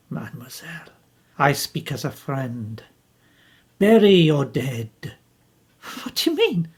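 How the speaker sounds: grave advice. Acted. Poirot counsels Jacqueline to bury her dead, gravely. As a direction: urge her gently to let go.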